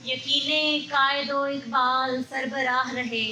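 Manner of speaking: measured Urdu mushaira recital; poetry recitation. Acted. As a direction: recite verse in long, even phrases.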